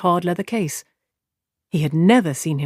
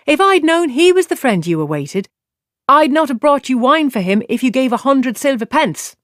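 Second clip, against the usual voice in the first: indignant scolding; 8 semitones higher, 5 dB louder than usual. A narrator's reading. Serving girl rounds on Matt.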